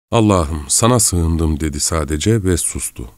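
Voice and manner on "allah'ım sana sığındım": put-on a scared girl's short prayer, stress on sana; whisper-close plea to God, sana leaned on; frightened prayer. Frightened girl prays to God in the dark room, scared plea. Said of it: "Fakat ürkmüştü çok".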